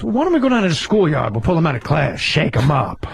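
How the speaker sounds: lightly voiced movie detective; Al Pacino. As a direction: pitch falling away as a film cop. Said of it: "He goes".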